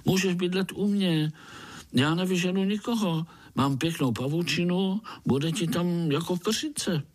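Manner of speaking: a kind little spider offering his web; little spider Pája. Acted. Spider inviting the ant to stay, friendly high voice.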